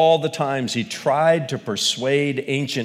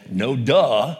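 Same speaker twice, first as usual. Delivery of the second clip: sarcastic; 3 dB louder than usual. Retold or imitated. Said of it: "you give a sarcastic response".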